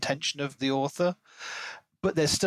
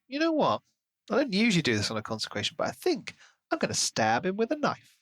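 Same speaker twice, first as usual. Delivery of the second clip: lightly acted Anton; 6 semitones higher, faster than usual. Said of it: "Anton was just like".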